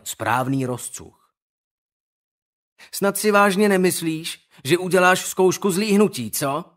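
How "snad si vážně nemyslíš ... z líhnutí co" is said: higher, louder fake astonishment; mock surprise. Owen mocks Skandar with fake astonishment. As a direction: feign amazement to mock him. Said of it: "s předstíraným údivem".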